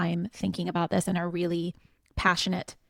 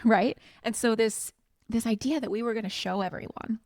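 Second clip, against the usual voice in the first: animated, higher-pitched recollection with real fervor; passionate; 5 semitones higher than usual. Real, not acted. Former employee proudly recalling the firm's comeback from underdog, passionate. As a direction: speak with passion, pitch lifting as you go. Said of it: "hear the passion in my voice".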